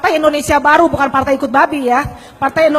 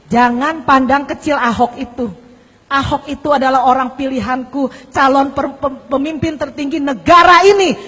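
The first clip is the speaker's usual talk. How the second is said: retold divine voice; 3 semitones lower than usual. Preacher retells the voice that woke him, lightly voiced divine voice. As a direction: lightly voice a message from God. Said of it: "Dengan suara yang sama lagi".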